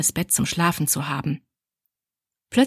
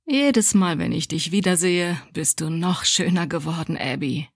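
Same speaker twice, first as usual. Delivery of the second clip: charming greeting. Acted. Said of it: "begrüßte sie mit den vertrauten Worten".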